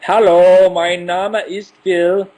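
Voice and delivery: high, slow robotic German greeting; mock robot voice, loud start. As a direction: speak German like a stiff robot. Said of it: "you sound like a robot when you speak German".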